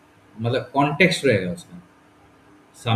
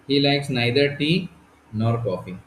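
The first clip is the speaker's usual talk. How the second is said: slow teaching read; much slower than usual. Shown as a demonstration. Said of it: "he likes what?".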